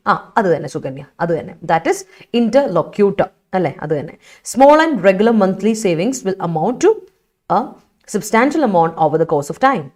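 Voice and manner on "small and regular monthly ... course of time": slow, careful reading of an example sentence. Shown as a demonstration. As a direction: read the sentence out slowly for the class. (വാക്യം പതുക്കെ വായിക്കുന്നു)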